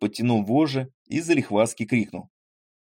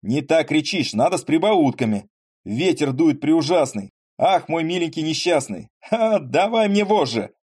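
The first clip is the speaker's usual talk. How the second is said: excited shout; 6 semitones higher, 4 dB louder than usual. Acted. Landowner shouts driver's patter.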